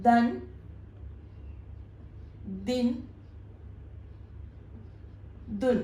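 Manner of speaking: ദൻ, ദിൻ, ദുൻ one at a time with long pauses; pronunciation demo. Shown as a demonstration. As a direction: say ദൻ, ദിൻ, ദുൻ as isolated syllables ending in n. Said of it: "എന്നാണ് നമ്മുടെ pronunciation".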